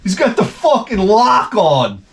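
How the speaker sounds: laughing jeer, slowed on the end; mild mocking yell through a laugh. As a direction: tease him while cracking up. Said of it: "they're like".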